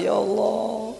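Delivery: mild mock lament; imitated weeping plea. Preacher voices a crying couple to God, mild lament. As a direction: plead as if tearful, lightly acted. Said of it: "Dia menangis nih".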